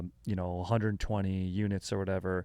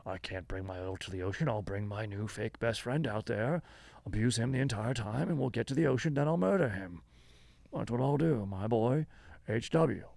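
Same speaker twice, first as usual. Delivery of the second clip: Daniel Plainview impression; 3 dB quieter than usual. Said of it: "Daniel Plainview".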